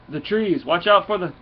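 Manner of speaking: hammed-up warning shout before a crash; George of the Jungle moment. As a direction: cry out before crashing into the trees. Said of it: "a little George of the Jungle moment there".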